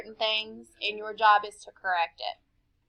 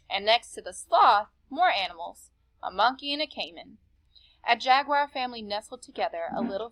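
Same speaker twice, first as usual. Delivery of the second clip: calm read-aloud to a class; story narration; 3 dB quieter than usual. A narrator's reading. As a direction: read the story steadily to the children. Teacher reads story to class.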